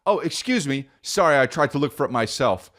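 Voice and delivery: high, timid polite question; polite ask. Retold or imitated. Comedian retelling asking a clerk, timid high voice.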